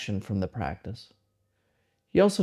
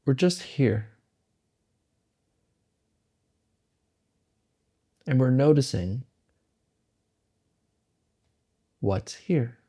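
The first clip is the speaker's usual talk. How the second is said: slow meditation guidance with long pauses; unhurried, spacing each phrase out to let it settle; guided meditation; slower than usual. Acted. Guide leading listeners into the present moment, meditative and slow.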